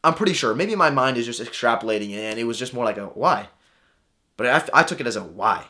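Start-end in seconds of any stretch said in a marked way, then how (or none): 3.1-3.5 lower, puzzled, genuinely curious; an innocent, curious why. Shown as a demonstration. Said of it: "Different tone there". 5.2-5.6 mock-incredulous brush-off; a cold, put-off why; hostile why. Shown as a demonstration. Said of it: "Different tone there".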